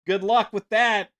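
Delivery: sarcastic refrain. Real, not acted. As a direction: toss it off with biting sarcasm. Sarcastic refrain against Sony.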